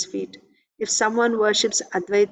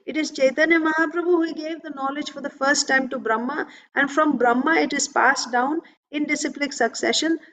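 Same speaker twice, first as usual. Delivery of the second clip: raised-pitch, mock-indignant questioning; mildly angry challenge; 4 semitones higher than usual. Son challenging his father about the guru, mildly angry. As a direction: retell the son's indignant challenge. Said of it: "angrily he said all this".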